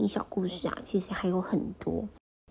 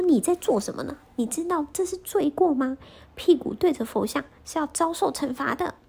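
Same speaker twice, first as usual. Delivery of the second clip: higher and louder angry scolding; furious elder; 8 semitones higher, 4 dB louder than usual. Acted. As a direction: scold him, shaking with rage. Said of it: "长老气得脸色发白". (气得发白的怒斥)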